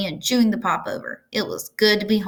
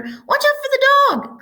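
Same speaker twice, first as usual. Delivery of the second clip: much higher, louder sheep cry; 5 dB louder than usual. A narrator's reading. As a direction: call the advice out like a sheep. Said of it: "cried the sheep".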